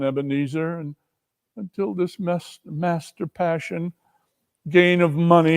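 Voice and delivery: a hint of a sad young woman reproaching; gently hurt, accusing former fiancée; lightly voiced Belle, reproachful.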